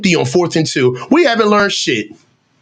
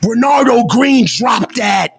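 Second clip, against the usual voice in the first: disbelief; 4 semitones higher, slower than usual. Real, not acted. Dropped interception.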